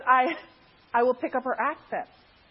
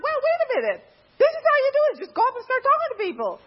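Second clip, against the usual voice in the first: roommate explaining; 14 semitones higher, 4 dB louder than usual. Retold or imitated. Roommate teaching how to socialize.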